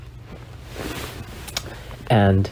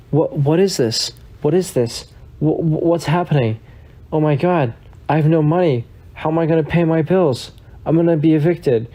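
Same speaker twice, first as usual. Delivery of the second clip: high, fast panicky rambling, acted; mock panic at her empty bank account; a hammed-up meltdown, voice pitched up and rushing; freaking out; 5 semitones higher than usual. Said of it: "She starts freaking out".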